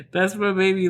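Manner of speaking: warm laugh through the words; laughing fondly. Real, not acted. Mother laughing about her teenage daughter, fond laugh. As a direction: laugh it out, half crying with love.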